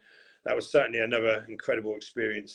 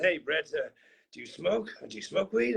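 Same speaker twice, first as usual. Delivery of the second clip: mild imitation of Mark; 5 semitones higher than usual. German yoga teacher offers weed.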